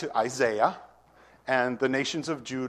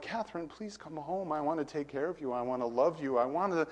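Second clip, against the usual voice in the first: tearful pleading; 4 semitones higher than usual. Retold or imitated. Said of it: "I start crying".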